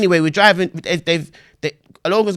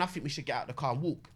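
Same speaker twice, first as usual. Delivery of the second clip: softer, fast hushed plan; quietly talking a friend into staying calm; 4 semitones lower, 6 dB quieter than usual. Retold or imitated. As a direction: keep it down while plotting in the car. Quiet plan inside the car.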